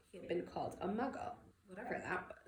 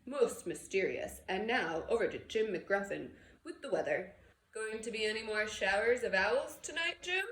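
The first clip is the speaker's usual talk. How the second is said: louder, jovial anchor handing over; amused newsreader; 5 dB louder than usual. Acted. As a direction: tease the weatherman on air.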